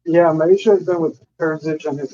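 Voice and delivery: muffled. Real, not acted. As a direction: voice muffled, as if through a hand. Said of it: "you're very muffled".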